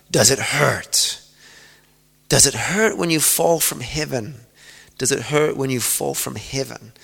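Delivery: a hint of an evil caller taunting; lightly voiced demon. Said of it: "dark, demonic voice".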